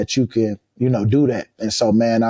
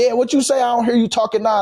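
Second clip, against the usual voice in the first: taunting trash talk; 11 semitones higher, faster than usual. Retold or imitated. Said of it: "that type of stuff".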